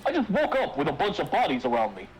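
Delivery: himbo voice. Acted. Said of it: "I call this voice my himbo voice".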